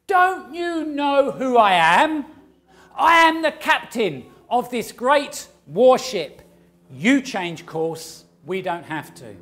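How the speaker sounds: loud, blustering ship captain refusing to budge; arrogant captain. Acted. Captain shouting back at the radio voice, loud and indignant. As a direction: bellow it like a proud captain who won't give way. Captain replies a third time.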